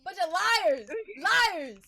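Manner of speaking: singsong scornful taunt; mocking jeer. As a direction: sneer it twice. Repeats insult mockingly.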